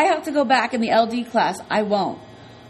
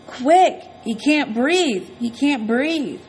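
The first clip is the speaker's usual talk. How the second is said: urgent, higher, slow alarmed cry; panicked call for help; 4 semitones higher, much slower than usual. Acted. Boy running to the nurse, calling out in alarm.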